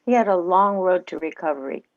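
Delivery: friendly testimonial delivery for a commercial; ad read. Shown as a demonstration. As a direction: read the spot like a sincere customer. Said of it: "Here we go".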